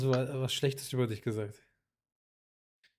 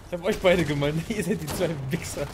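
teasing insult; 3 semitones higher, 5 dB louder than usual. Real, not acted. Mocking teammates after losing.

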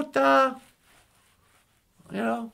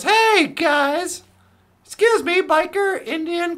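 raised, higher voice of authority; acted cop hailing; 4 semitones higher, 7 dB louder, much slower than usual. Cop pulling over three guys on a motorcycle, hailing them. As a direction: call the riders to attention, lightly in role.

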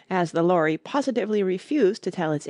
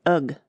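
shivering ugh; 3 semitones lower than usual. Acted. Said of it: "with a shiver".

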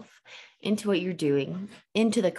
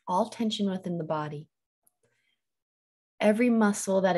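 guided meditation. Real, not acted. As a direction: ease them into letting go, unhurried. Guides listeners into settling the body.

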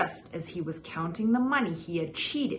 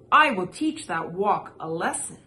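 angry; 5 dB louder than usual. Acted. Angry Missus Li threat.

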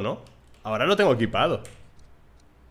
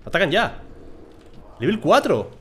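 high, loud alert; alarmed call-out; 8 semitones higher, 4 dB louder than usual. Real, not acted. Gamer alerting that the attack has begun, high and loud. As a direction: sound the alarm.

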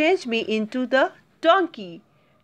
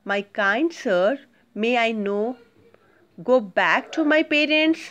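polite request. Shown as a demonstration. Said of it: "how he requested, see".

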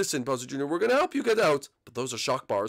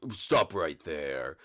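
slow officer command; 10 semitones lower, 4 dB quieter, much slower than usual. Acted. Officer voice enters.

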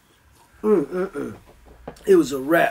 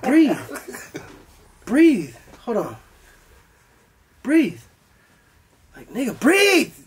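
self-urging; 4 semitones higher, slower than usual. Retold or imitated. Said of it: "I'm yelling at myself".

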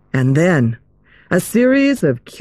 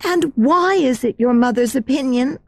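put-on curious girl voice; 8 semitones higher than usual. Another girl asks.

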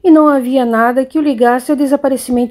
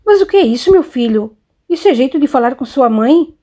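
mild shock. Acted. Mother shocked by son's rudeness.

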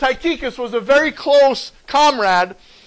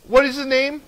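higher-pitched leading question; mock inquiry; 4 semitones higher than usual. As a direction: pitch the question up as a comic setup. Acted question before deadpan answer.

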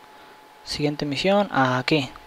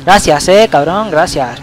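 sarcastic thanks; 4 dB louder, slower than usual. Real, not acted.

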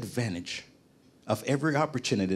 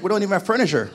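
laughing imitation of a panicked wife, higher and louder; mock panic; 7 semitones higher, 5 dB louder, faster than usual. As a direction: play the wife's alarm through a laugh. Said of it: "my wife was freaking out".

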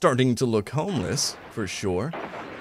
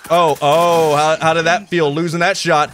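taunting; 4 semitones higher, 5 dB louder than usual. Real, not acted. Taunting a killed enemy.

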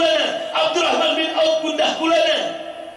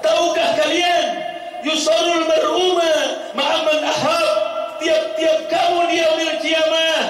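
full-force preaching. Acted. Prophet telling his companions their fate, preached with full force. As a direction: preach the promise as a climax.

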